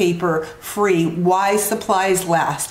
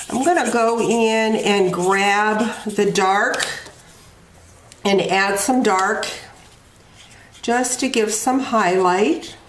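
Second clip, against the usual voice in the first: talking while crunching a cough drop; words round a crunching cough drop. Real, not acted. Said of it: "If you hear me crunching, I actually have a cough drop in my mouth".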